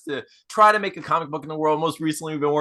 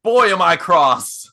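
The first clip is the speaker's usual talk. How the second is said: slow, louder, hammed-up cross; mild mock anger; 6 dB louder, slower than usual. Husband told to act mean, slowly faking being cross. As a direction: drag it out like fake anger. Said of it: "And he's like".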